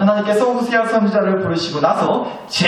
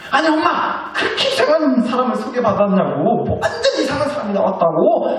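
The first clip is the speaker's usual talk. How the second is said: acted indignant child, higher-pitched; mock angry outburst; 5 semitones higher than usual. Grown child back from a bad blind date complaining to mom, mock anger. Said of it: "막 성질을 내면서 집에 들어오는 거예요".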